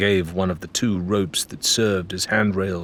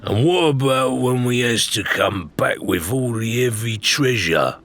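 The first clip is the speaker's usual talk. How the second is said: Ned; 3 semitones higher than usual. A narrator's reading. Ned worrying about treasure.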